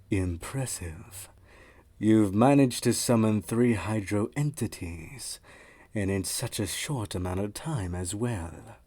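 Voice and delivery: measured, commanding teacher voice; lightly voiced mentor testing a pupil; stern mentor. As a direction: mentor setting a water trial, slow and commanding. Retake of mentor line.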